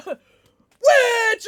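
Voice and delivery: high laughing shriek of witch. Real, not acted. Laughing shriek at her chat bot's message. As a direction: cackle and shriek it out.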